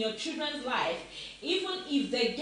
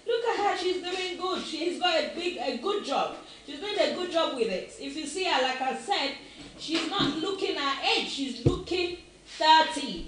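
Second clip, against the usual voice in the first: higher, excited pride in her mother; proud praise; 5 semitones higher, 3 dB louder than usual. Real, not acted. A touch higher, proud, praising her mother to viewers.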